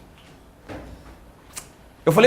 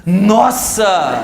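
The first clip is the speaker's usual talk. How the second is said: excited nossa; 4 dB louder than usual. Shown as a demonstration. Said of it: "Qual é a música?".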